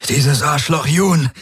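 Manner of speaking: high, drawn-out croak; strained, croaking swearing; croaked curse. A narrator's reading. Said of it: "krächzte er".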